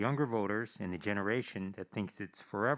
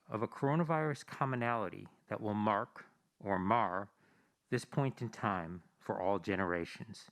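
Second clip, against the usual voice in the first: muffled behind a mask; speaking through a face mask. Real, not acted. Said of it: "I'm on stage speaking through a mask".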